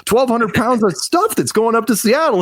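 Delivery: high, laughing mock reply; lightly voiced friend answering the agent; mock eager answer. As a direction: play the oblivious guy bragging. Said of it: "It's like".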